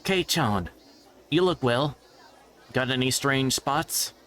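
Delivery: a lightly voiced friend joking with Kei-chan; teasing schoolgirl.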